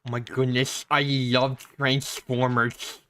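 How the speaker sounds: slow, drawn-out braces voice. Pretend. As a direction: lisp it like a kid with braces. Continues braces voice bit.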